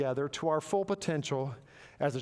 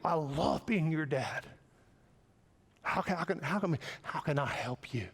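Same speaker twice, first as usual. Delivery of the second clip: loving dad. Retold or imitated. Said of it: "let the atmosphere be love".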